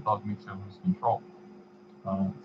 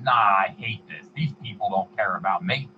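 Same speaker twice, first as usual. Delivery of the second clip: Stan Lee impression. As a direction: lightly imitate a fed-up celebrity. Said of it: "he was grumbling about having to sign".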